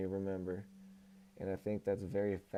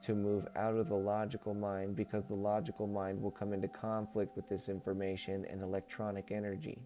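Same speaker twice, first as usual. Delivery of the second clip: even, measured reading voice; book read-aloud. Acted. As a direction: read it out as a solemn channeled message. Reads channeled book aloud.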